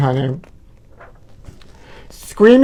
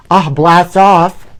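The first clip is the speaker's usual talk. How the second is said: slow catchphrase; 3 dB louder, much slower than usual. Acted. Catchphrase drawn out.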